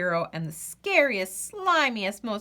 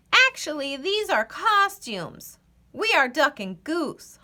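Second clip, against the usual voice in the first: higher, lively goose voice; 5 semitones higher than usual. Acted. Goose corrects the squirrel, high and lively. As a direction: explain the costumes as Goose. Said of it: "honked Goose".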